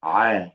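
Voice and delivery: short, isolated throat sound "ع"; letter-sound drill. Shown as a demonstration. Teacher drills a difficult letter for learners, isolated pharyngeal ع. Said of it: "يلا مرة تالتة".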